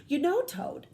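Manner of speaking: talking with mouth full. A narrator's reading. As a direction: speak around a mouthful of cookie. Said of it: "with his mouth full".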